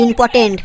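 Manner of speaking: ইম্পর্টেন্ট repeated with a falling end; corrected pronunciation. Acted. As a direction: model ইম্পর্টেন্ট with both t sounds. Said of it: "আগে ভালো করে উচ্চারণ করো". (ইম্পর্টেন্ট, শুধরে আবার বলা)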